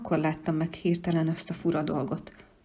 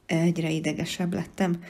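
ordinary delivery, nothing marked

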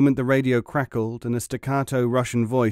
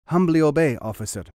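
mock gunners' reply; 5 semitones higher, 5 dB louder than usual. Zelikov mimics the gunners' reply.

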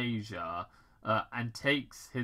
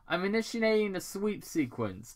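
Robotnik; 9 semitones higher than usual. Acted. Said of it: "Doctor Robotnik said".

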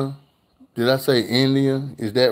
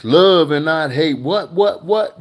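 high, loud playful what, what, what; excited reaction; 6 semitones higher, 5 dB louder, slower than usual. Real, not acted. Vlogger reacting to a viewer's comment, high and loud. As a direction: tease the viewer gleefully.

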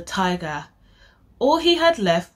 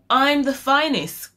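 growling tiger; 7 semitones higher, 4 dB louder than usual. A narrator's reading. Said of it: "growled the tiger".

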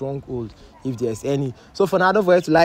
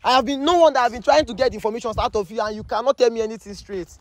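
much higher, fast, indignant scolding; high-pitched shocked scolding, rushing the words; angry outburst; 10 semitones higher than usual. Acted. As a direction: blast him for lying to you. Host scolds man for lying.

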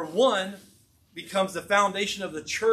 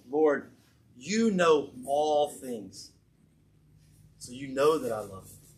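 lower, slow, deliberate vow; solemn declaration; 4 semitones lower, slower than usual. Retold or imitated. Peter answers Jesus the third time, solemn declaration. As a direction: declare it slowly, weighing each phrase. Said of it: "he makes a declaration".

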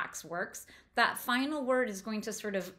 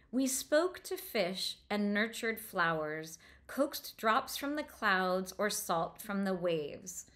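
slow literary reading; slower than usual. Shown as a demonstration. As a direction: read the line slowly, savoring each sound. Teacher reading the quoted sentence aloud.

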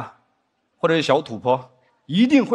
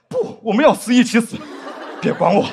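laughing through the line; 3 semitones higher than usual. Real, not acted. Looping melodrama, breaking up.

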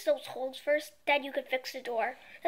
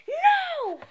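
high, loud snapped refusal; angry no; 13 semitones higher, 7 dB louder than usual. Acted. Father refusing his son's request. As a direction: shut him down hard.

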